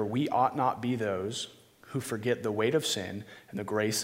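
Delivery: prayer. Acted. Opening prayer before the sermon.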